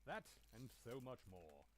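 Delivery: flirting. Acted. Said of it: "laying it on a bit thick".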